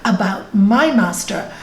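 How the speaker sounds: mild acted indignation; angry disciple. Angry disciple warning the boatman about his master, mildly indignant. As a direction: scold with measured, emphatic warning. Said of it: "this disciple got so angry".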